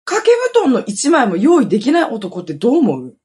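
mildly indignant, swinging emphatic question; irritated complaint. Retold or imitated. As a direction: appeal to listeners in retold annoyance. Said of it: "悲しいのとイライラするのと". (イライラ混じりに訴える)

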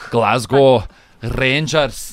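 slow, heavy Scottish; guttural Scottish accent. Shown as a demonstration. Host contrasting Scots with the Irish, slow Scottish accent. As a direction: drag it out in thick Scottish. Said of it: "But the Scottish are like".

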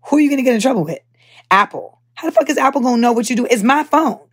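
heated rant. Retold or imitated. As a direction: push back, exasperated. Ranting about the tech's excuse.

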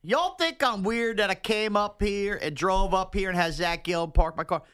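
slow Southern drawl, y'all leaned on; mock the Alabama caller's Southern accent; imitating Randy's Southern accent. Host mimics the Alabama caller's Southern accent, slow and teasing. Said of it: "Did you hear Randy in Alabama talking to us".

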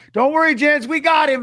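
a hint of an easygoing fan; crowd member reassuring. Fans at the UFC event tell the dads not to worry, in a lightly voiced breezy tone.

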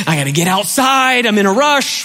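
put-on excited kid. Acting excited kid rushing out.

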